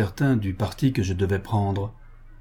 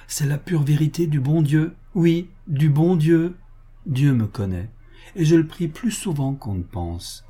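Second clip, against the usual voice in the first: lightly voiced woman, earnest protest; a hint of a proud woman defending herself; indignant woman; 4 semitones higher than usual. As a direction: insist with a touch of raised pitch. Woman character protests her virtue.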